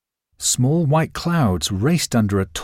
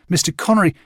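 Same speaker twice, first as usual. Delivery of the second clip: higher, calling after him; 7 semitones higher, faster than usual. A narrator's reading. Boy calling after the departing Connery, raised voice. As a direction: call out to someone leaving. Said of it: "I called to him".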